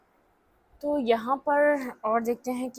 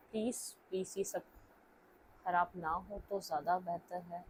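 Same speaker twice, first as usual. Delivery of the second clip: quiet pleading to herself; 4 semitones lower, 11 dB quieter than usual. Real, not acted. Pleading with cards while shuffling.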